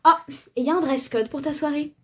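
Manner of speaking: put-on high airy ditzy girl; bimbo voice. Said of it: "je lui fais une voix de pétasse". (voix de pétasse)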